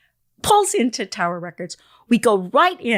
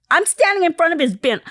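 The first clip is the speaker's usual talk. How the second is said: high, loud disbelief, retold; acting out a stunned phone reply; astonished exclamation; 9 semitones higher, 6 dB louder than usual. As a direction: blurt it out loudly, pitch way up.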